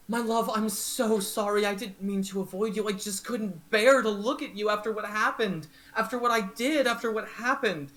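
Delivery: high, pleading apology to a lost love; remorseful lover. Acted. Candlefoot apologizing to Palasha, high and pleading. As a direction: beg forgiveness, voice lifted high.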